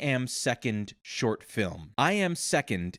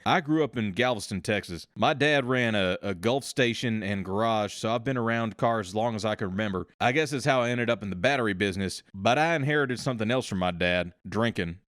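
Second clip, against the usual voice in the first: put-on East Texas accent. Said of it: "I'm going to do a South Texas accent here".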